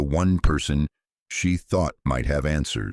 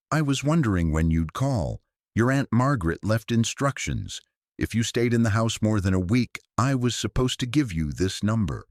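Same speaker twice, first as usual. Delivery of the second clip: a touch higher, urgent realtor on the phone; lightly voiced worried realtor; 3 semitones higher than usual. Realtor on the phone urges Sarah to call the priest, a touch higher. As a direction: warn her quickly, a little higher.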